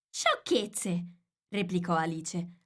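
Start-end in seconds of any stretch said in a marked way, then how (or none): 0.1-1.1 firm retort, slightly raised; loud and decided. A narrator's reading. Alice answers the raging Queen, firm and decided. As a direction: cut in decisively. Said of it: "a voce alta e decisa".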